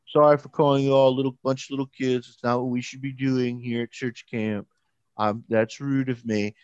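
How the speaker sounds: quick, insincere sing-song apology; mock forced apology. Bully mockingly reciting her forced apology to the campers. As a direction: rattle it off like a forced sorry. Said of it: "which is not what she said".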